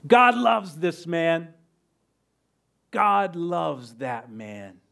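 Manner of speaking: slow, drawn-out mock call, fading on the repeat; stretched-out taunt, restrained and dying away; retold yell. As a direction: imitate a jeering call without real volume. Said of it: "he yells".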